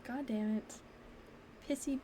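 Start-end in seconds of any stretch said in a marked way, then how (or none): 1.7-2.0 pissy. Real, not acted. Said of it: "I'm a pissy bitchy".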